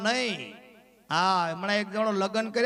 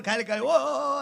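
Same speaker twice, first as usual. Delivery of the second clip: mock wailing; 3 semitones higher than usual. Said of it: "આમ આવું ચાલુ કર્યું".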